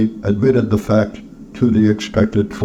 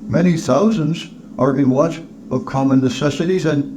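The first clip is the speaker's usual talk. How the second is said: charity collector, appealing; 4 semitones higher than usual. Acted. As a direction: open high and hesitant, then plead the cause.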